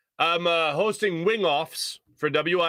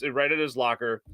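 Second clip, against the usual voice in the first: usual speaking voice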